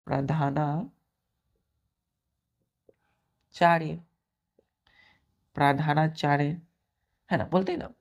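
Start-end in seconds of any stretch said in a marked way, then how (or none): 0.0-4.0 slow drawn-out answer. Shown as a demonstration. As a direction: stretch प्रधानाचार्य out slowly. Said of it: "क्या होता है?". (प्रधानाचार्य को धीरे खींचकर बोलना)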